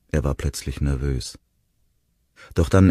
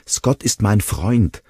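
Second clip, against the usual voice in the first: slow, louder protest, higher; 7 semitones higher, 5 dB louder, slower than usual. A narrator's reading. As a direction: insist on his loyalty, pleading. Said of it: "protestierte Will".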